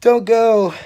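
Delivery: high, loud pleading yell; retold scream. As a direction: imitate an abandoned friend screaming after you. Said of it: "he's just screaming".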